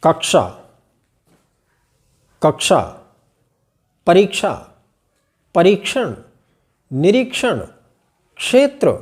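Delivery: every word with a light क then a retroflex श; correct क्ष. Shown as a demonstration. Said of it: "इस प्रकार से इसका उच्चारण करना चाहिए". (सही उच्चारण का अभ्यास, क्ष साफ़)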